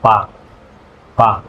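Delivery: "pa" without a puff of air; soft Spanish P. Shown as a demonstration. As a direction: say "pa" with an unaspirated P. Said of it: "really soft, both of them".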